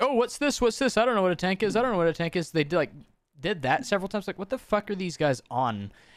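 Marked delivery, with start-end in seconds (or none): 0.0-2.5 high, dazed, clueless, spaced-out babbling. Retelling a comp match with no tank, imitating the other players talking. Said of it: "I hear them going like".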